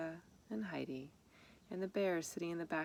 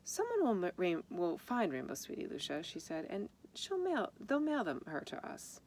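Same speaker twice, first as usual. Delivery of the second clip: forced cheer; 3 semitones higher than usual. Acted. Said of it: "Their mother tried to be cheerful".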